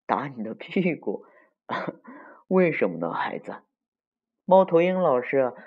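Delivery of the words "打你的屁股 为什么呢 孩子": mildly taken-aback granny teacher; puzzled question with a chuckle, softening at the end; gently amused disbelief; surprised. Acted. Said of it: "猫头鹰老师惊讶的".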